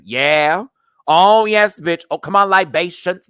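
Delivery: loud, high cheering from the crowd; cheering yell. Retold or imitated. Cheering from the back of a drag panel, yelling. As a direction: hype up the panel with shouts. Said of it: "you'll probably hear me yelling".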